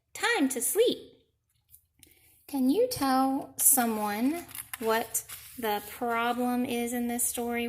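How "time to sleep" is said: high, slow, stretched plea; pleading bedtime. Acted. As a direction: stretch it out begging for sleep. Pete pleading for sleep.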